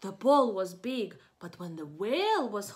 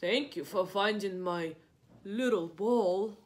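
lightly voiced whale; 3 semitones lower than usual. Reading to kids, whale thanking Piggy for the ball. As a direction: say it like a gentle giant.

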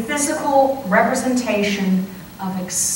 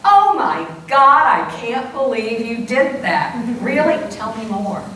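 mock gossipy shock. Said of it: "we just don't go".

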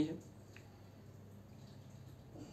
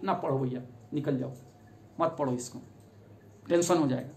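a low, quiet plea to leave it; hushed warning; 5 semitones lower, 8 dB quieter, faster than usual. Retold or imitated. Arya Samaj hosts quietly urging Ambedkar not to read, hushed. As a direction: softly warn him off, half under the breath. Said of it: "संस्था भी कहा कि".

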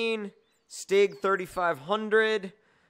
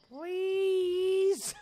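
mock whimpering plea; 13 semitones higher than usual. Stuck, mock pleading.

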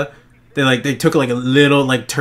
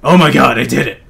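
excited shout; 4 dB louder than usual. Real, not acted.

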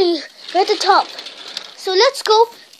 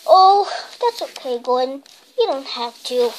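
sad; 5 semitones lower than usual. Acted. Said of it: "said the mayor sadly".

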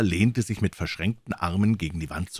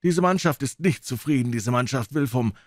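sailor's voice, higher, mock-polite; surly pirate spokesman; 6 semitones higher than usual. A pirate complains to Silver for the crew. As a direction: complain with false courtesy.

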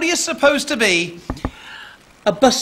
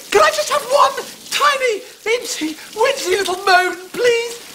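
wheedling plea; 5 semitones higher than usual. Acted. Begging for one small moan.

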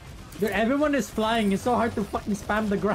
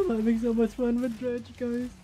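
dry sarcastic enthusiasm, half laughing; 2 semitones higher than usual. Pretend. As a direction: say it like you mean the opposite. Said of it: "It doesn't sound like you have fun".

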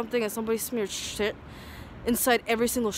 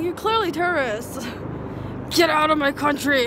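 loud, laughing retort, half-shouted; mock yell; 4 semitones higher, 4 dB louder than usual. Telling the British to leave his country, loud mock yell. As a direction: bark it back at them, laughing mid-line.

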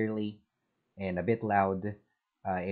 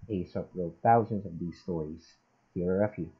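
noise suppression on. Shown as a demonstration. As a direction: read through a mic with noise suppression. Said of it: "noise suppression is on".

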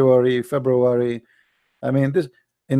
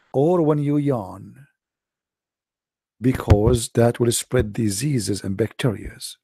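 mock preacher; 2 semitones lower, slower than usual. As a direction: parody a gentle preacher. Parodies Muslim article preacher.

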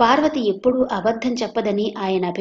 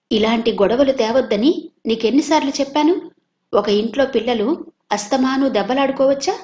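higher, louder grandmotherly scolding; angry reproach; 4 semitones higher, 4 dB louder than usual. Acted. Grandmother reprimanding Madhu, mildly angry. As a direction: reprimand him for the quarrels. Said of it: "అంది కోపంగా సుందరమ్మ".

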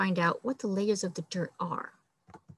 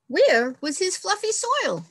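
dismayed; 9 semitones higher than usual. Acted. Dismay over hard ground.

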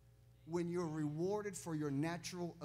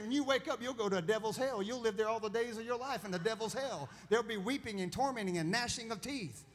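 louder, mock-dire hellfire warning to the boys; mom's hellfire warning; 3 semitones higher, 6 dB louder than usual. Mother scaring her boys about hell, loud mock-dire warning. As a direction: thunder out hell's torments like a stern mother. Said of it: "she said".

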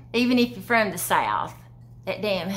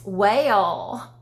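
flirty compliment. Shown as a demonstration. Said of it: "it might be used like this".

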